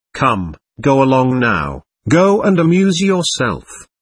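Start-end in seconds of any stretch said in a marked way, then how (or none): none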